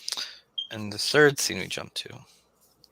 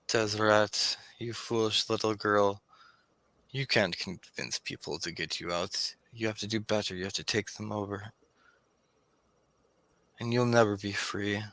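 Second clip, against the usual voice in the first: echoing taunting voice; 4 dB quieter than usual. Acted. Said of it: "this voice echoing out".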